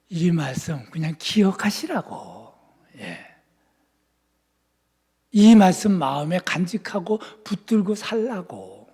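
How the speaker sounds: ordinary talk, nothing marked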